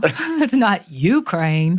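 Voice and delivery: slow "Ukraine" stressed on "U", with a laugh; laugh, then say "Ukraine" as "YOU-kraine"; slow teasing "Ukraine" with the wrong stress. Shown as a demonstration. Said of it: "put the emphasis on the wrong syllable".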